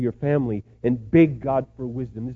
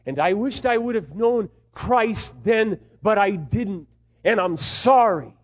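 acted regret; 7 semitones higher, 6 dB louder, slower than usual. Letter of regret to son.

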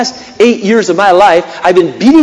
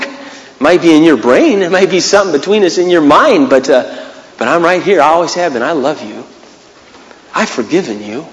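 gentle God voice; 2 semitones lower than usual. Pretend. God answers Mark gently.

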